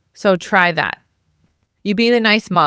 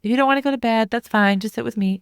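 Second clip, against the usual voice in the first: wet blanket mom; 3 semitones higher than usual. Shown as a demonstration. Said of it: "wet blanket mom".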